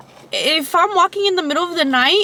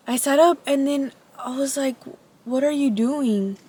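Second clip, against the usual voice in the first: scary voice; 3 semitones lower, 3 dB quieter than usual. Shown as a demonstration. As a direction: hush it like a campfire tale. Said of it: "say it in a scary voice".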